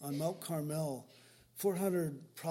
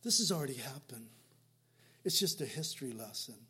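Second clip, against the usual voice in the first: mocking pastors; 4 semitones lower than usual. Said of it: "And they say".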